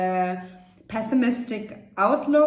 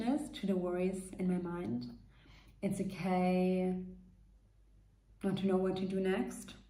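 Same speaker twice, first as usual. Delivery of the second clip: soft reassuring self-talk; 6 dB quieter than usual. Shown as a demonstration. To herself while stressed, a softer reassuring voice. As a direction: murmur it gently as if soothing yourself. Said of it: "validate yourself".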